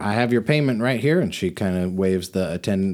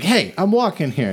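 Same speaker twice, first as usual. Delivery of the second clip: passerby; 9 semitones higher, 4 dB louder than usual. Acted. GM voices angry passerby.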